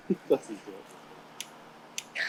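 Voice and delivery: slow whispered aside. Real, not acted. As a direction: whisper it slowly. Joking aside about copying Luke.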